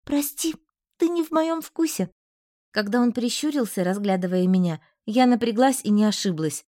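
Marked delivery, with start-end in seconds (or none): 0.0-2.1 put-on higher, teasing girl's voice; a young woman's higher voice, teasing a suitor; mocking heroine. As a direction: brush him off with a higher, mocking tone.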